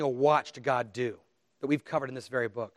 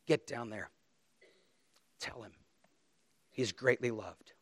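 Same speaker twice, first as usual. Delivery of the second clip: softly repeated; 2 semitones lower, 6 dB quieter than usual. Acted. Repeats God's words more softly.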